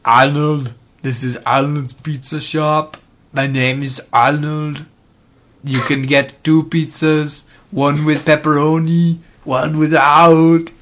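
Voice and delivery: high, slow goofy pizza-shop guy; goofy high pizza man hawking pies; silly Arnold voice. Pretend. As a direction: ham up a dopey shop owner.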